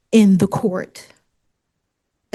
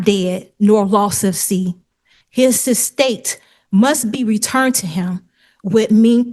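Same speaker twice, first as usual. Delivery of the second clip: reading aloud. Real, not acted. Litigant reading her statement onto the court record, deliberate recital. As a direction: read it out in separated phrases, with weight.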